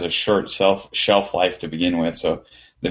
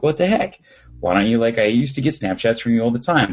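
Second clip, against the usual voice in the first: mock harassing; 2 semitones higher than usual. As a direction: pester a friend in mock indignation. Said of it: "I was harassing this".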